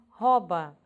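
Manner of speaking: "rouba" dito róba, com O aberto; pronúncia popular errada. Shown as a demonstration. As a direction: troque o OU de "rouba" por Ó. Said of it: "as pessoas dizem". ("rouba" sem o U, como róba)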